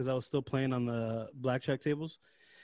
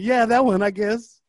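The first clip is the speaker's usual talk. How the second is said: flustered; 7 semitones higher, 9 dB louder than usual. Retold or imitated. Flustered reply, higher and loud.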